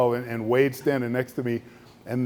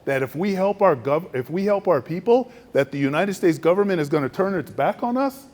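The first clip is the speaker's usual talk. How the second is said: higher, indignant questioning; offended disbelief; 5 semitones higher than usual. Retold or imitated. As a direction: demand how he dares say it. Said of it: "he was like".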